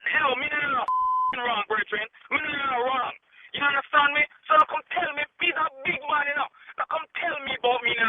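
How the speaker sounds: heated Jamaican patois, high and pushing; a Jamaican man squaring up on the phone; real Jamaican anger; angry Jamaican patois. Real, not acted. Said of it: "you went on a Jamaican run".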